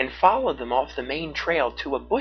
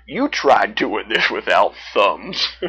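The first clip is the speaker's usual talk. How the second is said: light-hearted bear; 5 dB louder, slower than usual. A narrator's reading. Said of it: "said lightly".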